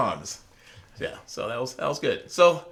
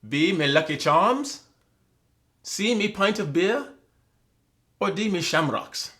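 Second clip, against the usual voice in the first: slow, lightly voiced Irish leprechaun; a hint of a cartoon Irish brogue on each choice; mock Irish accent; 4 semitones higher, slower than usual. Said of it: "And when you edit this".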